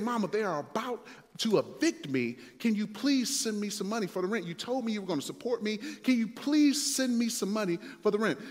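mildly urgent, imitated begging; retold frantic plea. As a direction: plead with mama, lightly acted. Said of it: "I called my mother frantically".

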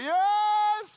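high loud shouted yes; eager yes. Retold or imitated. Young boy answering his friend on the soccer field, high loud yell. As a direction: shout back, eager and nervous. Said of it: "And I'm like".

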